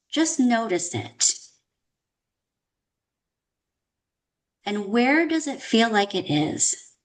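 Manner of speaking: calm, unhurried meditation guide with long pauses; guided meditation. Acted. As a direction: guide listeners inward, leaving space after each prompt. Leads a meditation.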